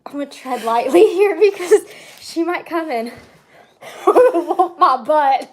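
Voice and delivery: giggling through the words, slowing down; laughing. Real, not acted. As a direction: laugh while you say it. Laughing about mom's reaction.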